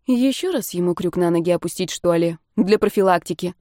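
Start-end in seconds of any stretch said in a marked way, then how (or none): none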